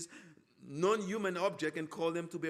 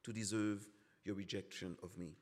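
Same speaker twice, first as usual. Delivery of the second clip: hurt pleading; 3 semitones lower than usual. Acted. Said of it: "It's as if God is saying".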